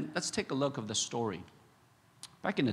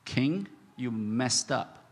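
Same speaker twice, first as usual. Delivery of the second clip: slow bold rebuke; much slower than usual. Shown as a demonstration. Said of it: "telling the truth loud and clear".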